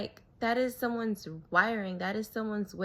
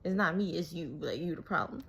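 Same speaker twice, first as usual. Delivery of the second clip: mock asshole retort. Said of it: "assholes would be like".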